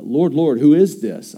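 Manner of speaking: Paul struck down, crying out in alarm; startled Paul. Acted. Paul on the road to Damascus, calling out in alarm.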